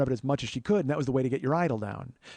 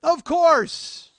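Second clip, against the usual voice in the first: loud, higher sarcastic ha ha; bitter mock laugh; 10 semitones higher, 7 dB louder, much slower than usual. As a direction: shout a fed-up fake laugh. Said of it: "and I went".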